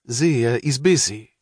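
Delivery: slow, deliberate, pointed; mother pointedly rebuking her husband. A narrator's reading. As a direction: lean on each word to make a point. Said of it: "said his mother pointedly".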